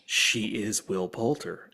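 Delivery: slow, low, laughing it out; laughing in disbelief. Real, not acted. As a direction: chuckle through the realization. Laughing realization.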